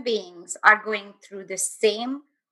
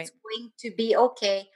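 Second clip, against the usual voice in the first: soothing repeat; 4 dB quieter than usual. Retold or imitated. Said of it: "this beautiful voice".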